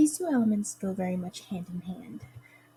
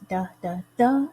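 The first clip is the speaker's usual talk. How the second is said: two light "the, the", then hit the third "the"; "the the THE", weak, weak, strong; anapest stress; 4 dB louder than usual. Shown as a demonstration. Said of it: "So unstressed, unstressed, stressed".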